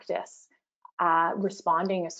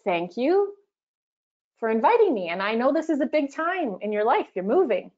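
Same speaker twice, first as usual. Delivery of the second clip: assertive; 4 semitones higher than usual. Shown as a demonstration. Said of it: "And assertive sounds like this".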